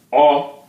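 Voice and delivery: O as open "aw"; open dotted O. Shown as a demonstration. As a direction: model O with an open "aw" sound. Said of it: "look at the dot".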